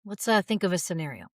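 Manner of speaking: ordinary talk, nothing marked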